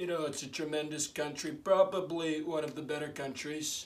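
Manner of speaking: soft, under-the-breath delivery. In a run of random voice impressions, announcing and doing a Donald Trump impression. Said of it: "Donald Trump".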